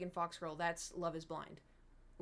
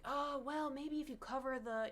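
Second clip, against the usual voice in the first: hedging mock voice; 5 semitones higher than usual. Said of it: "I wasn't like".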